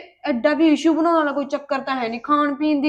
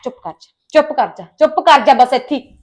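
telling him off; 7 dB louder than usual. Acted. Wife shuts husband up.

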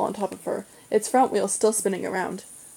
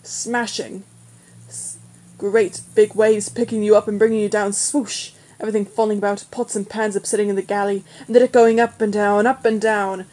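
gleeful, swooping build, getting louder on the big waves; teasing, excited storytelling; wicked relish; 5 dB louder than usual. A narrator's reading. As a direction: relish the horror with mounting enthusiasm. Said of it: "Simon grinned wickedly".

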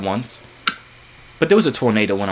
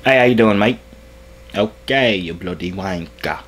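fake British greeting; 3 semitones lower than usual. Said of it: "I'm really good at angry, like, British".

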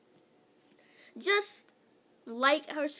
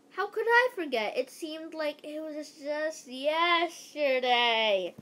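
dramatic principal; 4 semitones higher than usual. Acted. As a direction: reminisce like a hammy principal.

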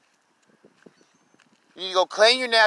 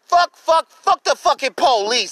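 shouting; 4 semitones higher than usual. Real, not acted. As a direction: spit the curses at the cops. Cursing the police in anger.

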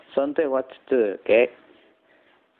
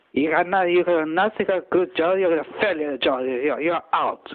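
demo scream; 4 semitones higher than usual. Shown as a demonstration. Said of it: "how to scream myself".

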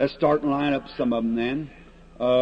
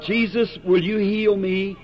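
pleading sick person; 5 semitones higher, 3 dB louder than usual. Retold or imitated. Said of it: "someone out there would come and say".

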